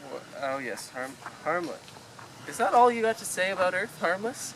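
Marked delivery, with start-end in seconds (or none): 2.5-4.5 indignant. Acted. Arthur outraged at the entry.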